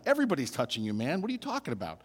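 the crowd scoffing at Jesus, lightly mocking; sarcastic crowd. A hint of a sarcastic bystander. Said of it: "We can hear the sarcasm".

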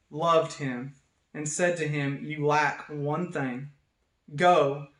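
measured reading aloud with pauses between phrases; scripture reading. Acted. Pastor reads the Gospel passage to an online congregation, measured. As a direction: read it out as solemn scripture.

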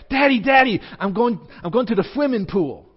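put-on little girl begging Daddy, high and eager; excited little daughter. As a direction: squeal it like a thrilled two-year-old. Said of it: "She's like".

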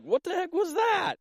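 high-pitched mock astonishment; retold alarm. Preacher re-enacting his shock at a shaking house, high-pitched alarm. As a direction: re-enact a startled reaction, pitch shooting way up.

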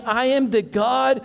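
gentle voice of God. Acted. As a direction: promise it tenderly. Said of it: "I know God is saying".

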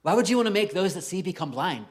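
incredulous rising what; baffled what. Retold or imitated. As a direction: play the puzzled reader shocked by the verse. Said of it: "I'm like".

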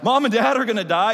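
put-on high, loud, panicked child cry; mock horror of little kids; alarmed kids. Little girls hearing their parents will die, crying out high and loud. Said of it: "And they're like".

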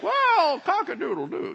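high-pitched cock-a-doodle-doo; comic rooster voice; rooster crow. Pretend. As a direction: crow loudly like an interviewed rooster. Imitates interviewed rooster crowing.

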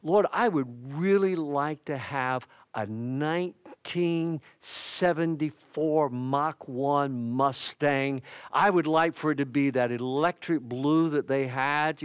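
mock wishful prayer. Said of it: "I might say tonight".

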